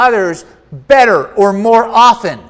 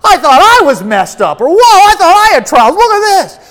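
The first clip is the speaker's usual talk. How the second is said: much higher, louder astonished cries; mock amazement; 9 semitones higher, 8 dB louder than usual. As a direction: exclaim as if shocked by others' troubles. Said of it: "You're, like, going".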